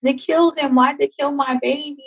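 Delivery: a touch of sobbing grief, retold; retold crying plea. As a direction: cry out the loss to a friend. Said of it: "I'm crying into her chest".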